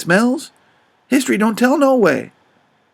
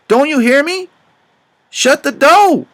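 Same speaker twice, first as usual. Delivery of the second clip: higher and louder angry yell; mighty loud; 7 semitones higher, 4 dB louder than usual. Retold or imitated. Jim yelling at his daughter to shut the door, loud anger. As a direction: bark it at the child who won't obey. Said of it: "mighty loud, I says".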